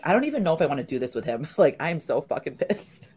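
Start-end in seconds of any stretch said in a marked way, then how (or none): 0.1-1.4 fast muttered complaint. Retold or imitated. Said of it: "I'm like".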